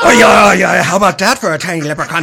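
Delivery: loud triumphant taunt; gloating shout. Acted. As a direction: crow over the beaten man. Gloating after a punch.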